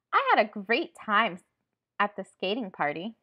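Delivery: loud, cheerful burst; happy. Shown as a demonstration. Teacher acting out a happy feeling for pupils, happy. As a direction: punch it out with happy excitement.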